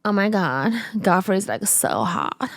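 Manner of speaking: American accent with Chinese accent showing through; badly faked American accent; attempted American accent. Shown as a demonstration. Comic asked to sound American, Chinese-tinged American accent. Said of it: "Can you do an American accent?".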